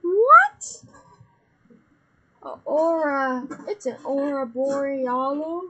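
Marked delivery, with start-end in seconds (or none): 0.0-0.8 loud surprised shout. Real, not acted. Sudden surprise in game.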